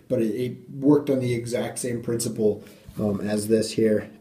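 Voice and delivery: echoey room. Real, not acted. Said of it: "Sorry if it's really echoey in here".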